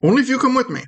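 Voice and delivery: high little bargaining voice; timid tiny creature. Acted. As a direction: bargain in a small, high-pitched voice. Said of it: "And be like".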